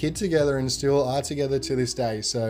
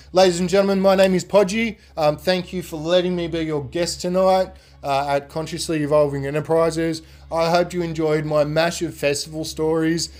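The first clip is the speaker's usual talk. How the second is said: louder, faster showman intro; host announcement; 3 semitones higher, 3 dB louder than usual. Acted. Speaker signing off to the audience like a host. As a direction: announce yourself like a host on stage.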